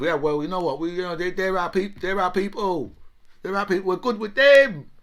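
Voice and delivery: mock Irish voice, climbing to a loud peak; playful Irish accent impression. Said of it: "Obviously in an Irish accent".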